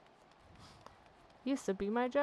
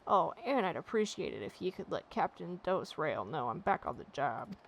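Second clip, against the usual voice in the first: amazed sailor. Acted. Maga thanks the adventurer, impressed gruff sailor voice. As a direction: praise a miracle worker, grudgingly impressed.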